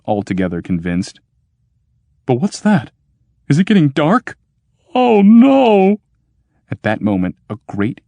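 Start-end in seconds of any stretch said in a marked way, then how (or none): 2.3-4.4 alarmed. Acted. Clopasius alarmed in dark cave. 4.9-6.0 high alarmed cry of panic; sudden fright, voice jumps up; panicked cry. Acted.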